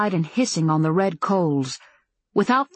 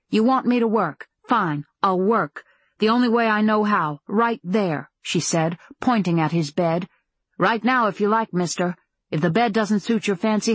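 bitter anger; 2 semitones higher than usual. Acted. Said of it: "She seethed with frustration".

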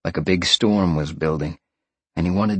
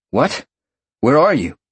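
urgent, raised-pitch demand; 8 semitones higher, 6 dB louder than usual. A narrator's reading. Sean to Roxy fleeing the fire, demanding. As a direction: demand an answer at once, louder by the end. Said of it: "Sean demanded".

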